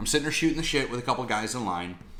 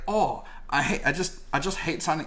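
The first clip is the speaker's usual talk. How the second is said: higher, hammed-up British accent; clumsy mock British accent; bad British accent; 6 semitones higher than usual. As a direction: butcher a British accent on purpose. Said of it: "I'm gonna fuck up a British accent here".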